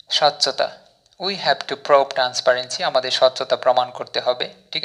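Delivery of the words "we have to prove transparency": very slow, word by word English; slow example sentence. Shown as a demonstration. Teacher reads example sentence to learners, very slowly. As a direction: spell out each word of the model sentence. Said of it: "infrastructure দিয়ে যদি আপনি sentence তৈরি".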